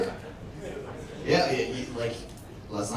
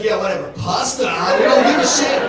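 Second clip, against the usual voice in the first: mock Italian shrug; 2 semitones higher, 3 dB louder than usual. Comedian voicing Italians who shrug off history, loud and careless. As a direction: shout it like you couldn't care less.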